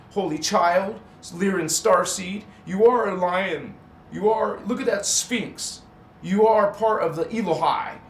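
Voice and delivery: loud, rousing call to the faithful; fired-up shouting. Real, not acted. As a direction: preach it at full volume to your viewers. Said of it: "Maybe I was just shouting".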